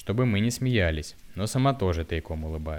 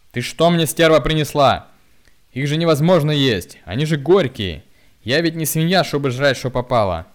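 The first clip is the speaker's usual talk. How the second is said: very loud, high furious abuse; raging drunk; 7 semitones higher, 10 dB louder than usual. A narrator's reading. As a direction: tear into her over the pickles. Drunk uncle rages at wife. (пьяная яростная брань)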